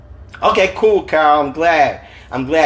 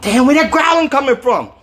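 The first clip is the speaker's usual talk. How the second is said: 1 anguished Dwayne; 11 semitones higher, 3 dB louder than usual. A narrator's reading. Dwayne with pounding headache.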